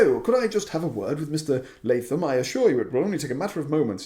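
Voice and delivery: a hint of a polite posh gent, quick; smooth and quick, talking his way in; lightly posh Columbus. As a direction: Columbus asking the secretary for a word, lightly posh. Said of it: "he's like".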